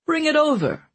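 jovial glutton voice; Mancini voice. A narrator's reading. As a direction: boom it out like a greedy jester. Mancini beckoning for food.

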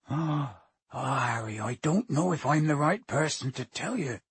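worried, reluctant giant; rustic character voice, mildly anxious; Hagrid. Acted. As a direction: break it to the boy hesitantly.

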